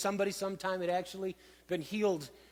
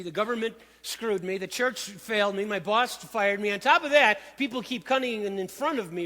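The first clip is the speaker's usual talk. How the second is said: excuse-making sick man; 2 semitones higher than usual. Retold or imitated. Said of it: "what I hear in his answer is, "Yes, but".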